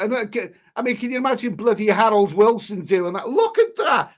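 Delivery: laughing through the words; half-laughing, rising on look at that; laughing disbelief. Real, not acted. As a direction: chuckle in amused disbelief. Laughing at PM's dance video.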